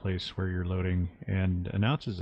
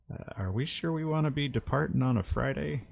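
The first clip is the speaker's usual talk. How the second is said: higher-pitched, hesitant question; sheepish; 6 semitones higher than usual. Acted. Crewman approaching the captain about departing, sheepish. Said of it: "sort of sheepishly say".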